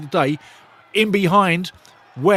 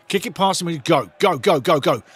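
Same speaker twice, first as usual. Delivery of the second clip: ordinary delivery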